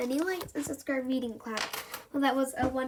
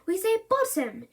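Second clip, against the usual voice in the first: gentle correction; 2 semitones higher than usual. Acted. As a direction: correct the child kindly. Mum correcting child.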